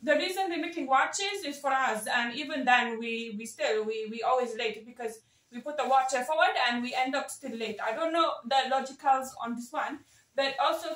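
put-on thick South Asian auntie accent, scolding and gossipy. Community elder auntie lecturing the chat, in a South Asian accent.

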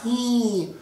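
light high voice slide; high slide demo. Shown as a demonstration. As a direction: slide up into head voice. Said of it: "give me a little slide like this".

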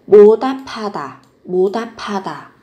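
보답하다 linked with an aspirated p, "bodapada"; linked p sound. Shown as a demonstration. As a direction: join ㅂ and ㅎ in 보답하다 into a puffed p. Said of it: "phát âm giống với âm phờ".

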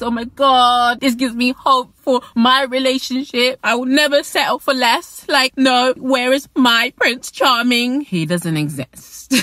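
mock a starry-eyed fan replying; gushing fan. Vlogger imitates fans in the replies, high gushing. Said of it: "I see you guys in the replies".

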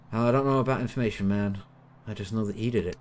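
light mock American accent. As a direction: play the witness as an American. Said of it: "gone into some sort of weird American accent with him".

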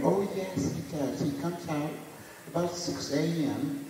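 a bright high American desk clerk voice; imitating an American desk clerk; American accent. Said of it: "in a very American accent".

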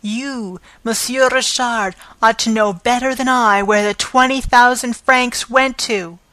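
jab it at Richard; yelping accusation. Acted. Concierge to Richard, yelping accusation. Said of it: "she yelped".

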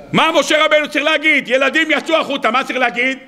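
high, emphatic repeated question; insistent questioning. Real, not acted. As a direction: press a drowsy audience for the answer. Repeats question to rouse sleepy listeners. (שאלה נמרצת בקול גבוה)

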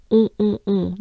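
"On" mock-exaggerated, very nasal. Shown as a demonstration. Teacher urging learners to exaggerate the nasal sound. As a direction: overdo the nasal "On" for fun. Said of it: "Just exaggerate, just make fun of it".

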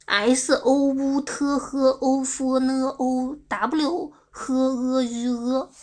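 very slow, drawn-out letter-by-letter reading; spelling out an ID. Shown as a demonstration. Streamer reads a viewer's ID, spelling it out slowly. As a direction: chant each letter out long and level. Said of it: "我喜欢念你的I D".

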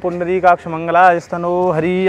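monotone Sanskrit-style wedding chant; mock wedding mantra. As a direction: chant it like a priest rushing through wedding rites. (शादी के मंत्र का सपाट जाप)

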